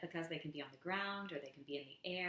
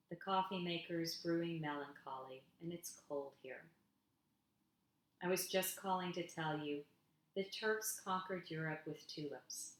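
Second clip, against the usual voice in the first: unhurried reading with the repeated line set apart; poem reading. Acted. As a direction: let each "I was just calling to tell you" land, then pause. Reads her poem Homesick.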